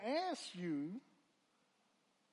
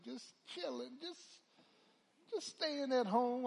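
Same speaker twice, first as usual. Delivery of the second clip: casual lying answer; 6 semitones higher than usual. Retold or imitated. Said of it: "I said".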